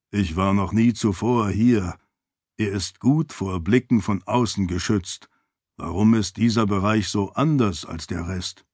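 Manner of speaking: a hint of a formal, reserved attendant; lightly voiced loyal servant. Servant remarks on the hidden place, lightly voiced reserve.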